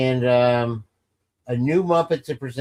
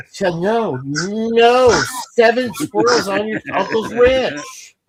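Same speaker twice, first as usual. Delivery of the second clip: higher, slow, strange put-on voice; silly put-on voice; 7 semitones higher, 6 dB louder, slower than usual. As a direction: switch into a goofy character voice. Sudden put-on voice, nonsense line.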